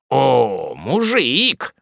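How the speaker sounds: sneering, irritated jab; mocking, irritated. A narrator's reading. The lieutenant sneering at the ordinaire, mocking and irritated. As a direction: scoff at him, annoyed. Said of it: "насмешливо, и раздражительно".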